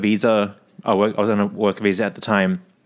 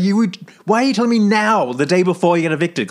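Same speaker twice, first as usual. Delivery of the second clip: retold snap; 7 semitones higher than usual. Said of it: "And I snapped".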